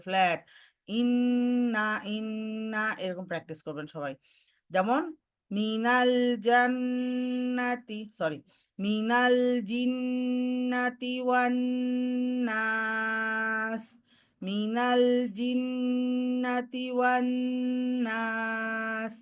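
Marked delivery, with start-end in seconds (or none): 1.0-2.8 ইন্না held on one level pitch; flat tone. Shown as a demonstration. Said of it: "flat পড়তে হবে". 8.8-19.1 মিনাল জিন্নাতি ওয়ান নাস on one level pitch, slow; flat recitation. Shown as a demonstration. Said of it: "অবশ্যই flat".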